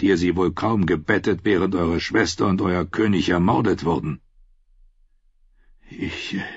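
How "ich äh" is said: caught-out stammer. A narrator's reading.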